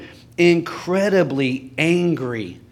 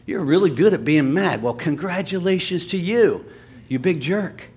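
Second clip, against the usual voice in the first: mock congratulations, mildly sarcastic. Preacher answers someone proud of being mad, sarcastic. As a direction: praise them with a touch of sarcasm. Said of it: "It might sound sarcastic".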